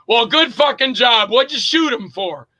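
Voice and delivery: irritated movie-scene rebuke; sarcastic berating. Acted. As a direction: chew out your partner. Acts berating co-star after shooting.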